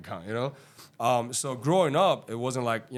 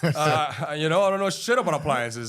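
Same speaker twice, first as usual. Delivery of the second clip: laughing; 5 semitones higher, 7 dB louder than usual. Real, not acted. Laughing about clueless job.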